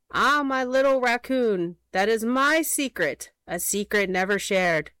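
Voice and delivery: sly little creature voice; coy and secretive; sly hedgehog. Acted. Hedgehog character voice.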